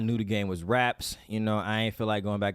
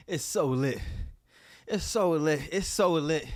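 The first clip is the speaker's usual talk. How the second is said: excited; 6 semitones higher than usual. Real, not acted. Elated fan repeats cheer.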